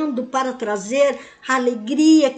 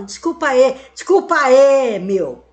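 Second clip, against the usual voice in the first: casual slangy sorry, a bit louder; youth slang apology; 4 dB louder than usual. Retold or imitated. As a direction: toss it off like a teenager. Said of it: "Não é assim que a moçada fala?".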